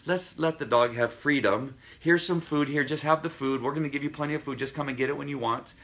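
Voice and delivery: high, gushing owner voice; mock pampering owner fussing over a scared dog; doting overly nice owner. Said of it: "our tendency is to get overly nice".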